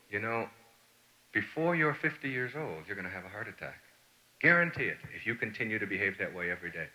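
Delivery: soft, low-key caution; retold sober advice, voice dropped; grave warning. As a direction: warn him quietly and seriously.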